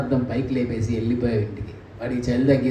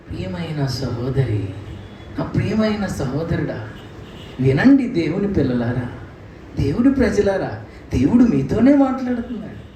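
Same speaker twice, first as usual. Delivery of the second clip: sweet preacher voice. Retold or imitated. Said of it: "sweet అయిపోయిన ఈ ప్రసంగాలు".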